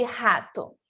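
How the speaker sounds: "rato" with a throaty H-like R; Portuguese guttural R. Shown as a demonstration. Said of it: "como um R do português".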